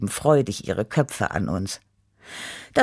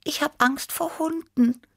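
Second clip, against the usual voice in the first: high cat voice. Acted. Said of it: "gab Tibi zu".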